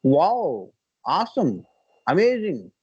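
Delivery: acted exclamations of joy, lightly done; hammed-up little wows; mock delight. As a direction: gush in imitation of trendy English speakers. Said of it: "సంతోషం వస్తే ఏం చేస్తాం?".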